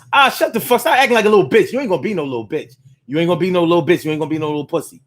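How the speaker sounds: a parent mocking a crying child; harsh parent. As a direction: scold the crying kid.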